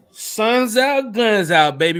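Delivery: loud, high wrestler promo shout; Scott Steiner mode. Retold or imitated. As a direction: bellow it like a pro wrestler. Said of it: "Real Scott Steiner mode".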